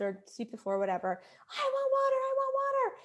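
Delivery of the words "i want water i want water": high repeated whiny demand; whining child. Retold or imitated. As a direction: nag it like a toddler who won't stop. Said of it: "She would scream to me".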